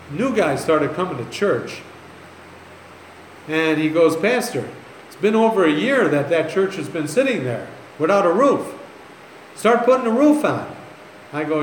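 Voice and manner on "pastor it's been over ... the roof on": higher, insistent demand; retold pushy complaint. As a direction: imitate a newcomer pressing the pastor. New guy confronts pastor over roof.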